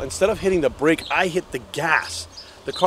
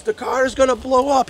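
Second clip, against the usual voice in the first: put-on panicked Danish accent, much higher pitch; 10 semitones higher than usual. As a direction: mimic the Danish exchange student, alarmed and high. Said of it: "I'll never forget his Danish accent".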